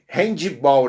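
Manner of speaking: handball as three syllables, "hendji-bol"; Brazilian mispronunciation. Retold or imitated. Teacher imitating Brazilians, handball said like handy-ball. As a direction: slip an I after the D in handball. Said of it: "o Brasil fala".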